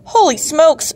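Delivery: a high, startled exclamation; shouting. A narrator's reading. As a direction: jump up in alarm. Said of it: "shouts Landlady Chris".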